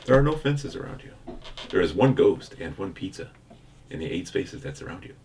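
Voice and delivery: flat monotone game readout. Acted. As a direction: read it like a bored robot. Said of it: "I have mastered the art of the monotone voice".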